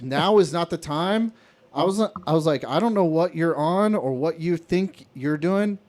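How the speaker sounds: retold heated snap. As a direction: lay into the coworker again as you retell it. Heated argument with lazy coworker.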